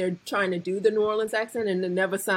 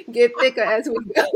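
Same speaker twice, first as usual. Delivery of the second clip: louder, thicker New Orleans accent; thickened New Orleans accent; 3 semitones higher, 6 dB louder than usual. Shown as a demonstration. Speaker playfully letting her accent out, thicker New Orleans accent. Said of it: "I'm laying the thickness on".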